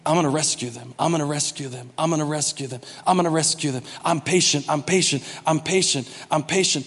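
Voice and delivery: patient reassurance. Retold or imitated. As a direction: repeat it gently, with steady patience. Voicing God's patient, repeated promise.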